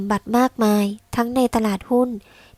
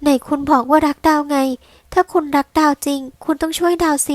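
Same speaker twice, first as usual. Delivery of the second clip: higher, pleading cry, drawn out at first; desperate pleading wife; 4 semitones higher than usual. Acted. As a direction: beg your husband not to leave you. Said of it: "เธอร้องลั่น".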